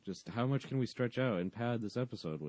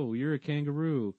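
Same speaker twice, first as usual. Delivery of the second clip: put-on kids' suggestion; 7 semitones higher, 4 dB louder than usual. Acts kids making up story.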